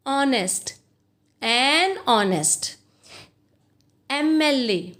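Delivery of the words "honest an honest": "honest" begun on an open O, no H; "an honest" drawn out slowly, H left silent; silent-H pronunciation. Shown as a demonstration. Teacher showing how we pronounce it, "honest" with silent H. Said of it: "We pronounce it like".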